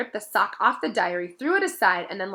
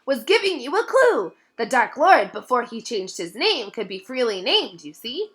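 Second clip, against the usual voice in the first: higher, louder elf voice; elf, matter of fact; 4 semitones higher, 6 dB louder than usual. A narrator's reading. Dobby explains to Harry as if obvious. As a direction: explain the obvious, eyes wide.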